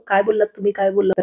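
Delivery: काय बोललात तुम्ही, काय बोललात? echoed back at near-normal pitch, mocking. Husband mimicking his wife's shocked question to mock her. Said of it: "सगळं ऐकून परत नाटक नको करू".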